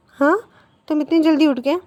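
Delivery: mock amazement that he is up; surprised question. Sister teases her brother who came to breakfast: high surprised question.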